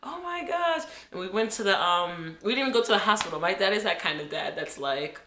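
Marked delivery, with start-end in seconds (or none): 0.0-0.8 put-on high-pitched little-girl wail for daddy; crying kid. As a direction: call for daddy like a scared child. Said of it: "I was like".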